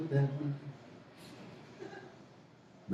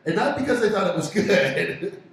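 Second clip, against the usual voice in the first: laughing admission; 6 semitones higher than usual. Real, not acted. Laughing about his own accent.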